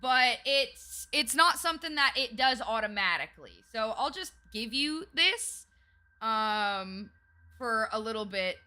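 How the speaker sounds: put-on Southern accent. Streamer doing a Southern accent for chat, lightly put on. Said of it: "y'all get ten minutes with the accent starting now".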